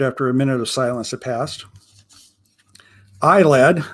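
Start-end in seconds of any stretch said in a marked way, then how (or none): 3.2-3.8 lightly voiced pirate accent, a bit louder; a hint of a rumbling old sea pirate. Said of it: "in a strange accent that seemed perfectly suited to his rumbling baritone voice".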